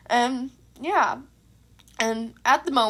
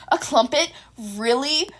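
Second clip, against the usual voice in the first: shocked exclaim; slower than usual. Acted. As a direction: play up the outrage at the name. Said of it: "Midoriya exclaimed in total shock".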